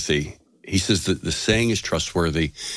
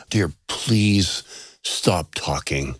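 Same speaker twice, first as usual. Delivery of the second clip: measured, deliberate plea, dropping low; matter-of-fact; 3 semitones lower, much slower than usual. Retold or imitated. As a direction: retell it slowly and evenly, without any threat. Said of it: "I said this very matter-of-factly, uh, not in a threatening way".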